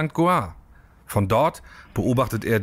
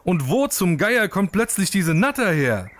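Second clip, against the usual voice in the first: startled and pitched higher; horrified; 5 semitones higher than usual. Acted. Uwe the lizard startled by the snake, mildly horrified. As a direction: lizard jolted awake in mild storybook alarm. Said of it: "fragt Uwe entsetzt".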